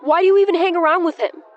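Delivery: high, loud voice breaking into a yell; cracking yell. A narrator's reading. Eli yells at Penn, voice cracking. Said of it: "His voice cracked into a yell".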